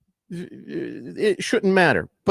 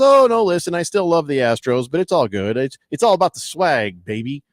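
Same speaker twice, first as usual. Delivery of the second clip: breezy brush-off; 3 dB louder than usual. Retold or imitated. Player to upset fans about his hat, imitated breezy brush-off. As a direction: imitate someone laying on easy reassurance.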